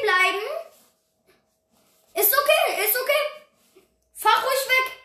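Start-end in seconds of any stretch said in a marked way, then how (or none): 2.1-4.9 taunting. Real, not acted. Taunting a fleeing driver.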